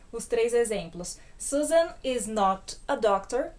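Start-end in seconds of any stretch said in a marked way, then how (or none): 1.4-3.5 full form. Shown as a demonstration. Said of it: "na forma cheia".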